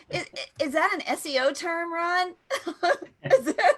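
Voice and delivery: asking through laughter; can barely ask for giggling; giggly teasing question; laughing question. Real, not acted. Laughing at double meaning.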